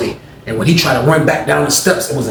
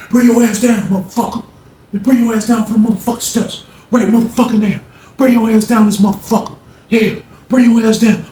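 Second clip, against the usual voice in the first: furious yell; 7 semitones higher than usual. Retold or imitated. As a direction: bellow it like a knife-wielding madman. Rollo yelling threats up the stairs.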